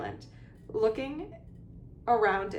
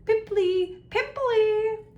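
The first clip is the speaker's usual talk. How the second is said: very high, loud jeering yell; yelling taunt; 8 dB louder, much slower than usual. A narrator's reading. Poltergeist chasing the sobbing ghost, yelling. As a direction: sing out the insult after her.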